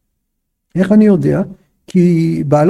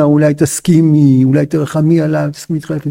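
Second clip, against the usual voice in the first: imagined pleading; 5 semitones lower than usual. Retold or imitated. Husband's imagined request to concubine, gentle pleading. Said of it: "הוא לא מבקש ממנה".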